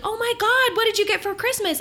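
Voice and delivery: high, gushing girly mimicry; mock-excited girly voice; mock excited squeal. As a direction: gush like thrilled little girls.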